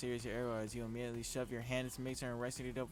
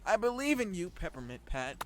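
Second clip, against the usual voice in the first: cheering colonel; 7 semitones higher, 9 dB louder than usual. Acted. Colonel Sanders cheering player on.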